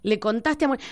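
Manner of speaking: plain Rioplatense "Le contaste a Mónica"; natural Argentine phrasing, not Spain's "has contado". Shown as a demonstration. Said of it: "Decís".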